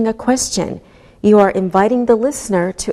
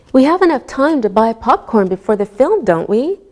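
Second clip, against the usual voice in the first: don't we going up at the end; rising tag. Shown as a demonstration. Teacher modelling a real question for the class. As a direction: ask don't we with a genuine rise. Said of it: "if your voice goes up".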